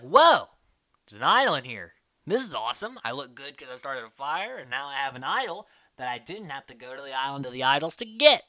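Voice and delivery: mildly hammed-up delighted discovery; excited. Castaway finds an idol in a tree, excited. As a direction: imitate a thrilled game player.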